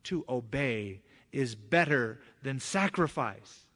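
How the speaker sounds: slow, weighty prophet's pronouncement; Samuel's rebuke. Retold or imitated. Prophet rebuking the king, slow and grave. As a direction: lay down the verdict like a stern prophet. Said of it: "And so Samuel says".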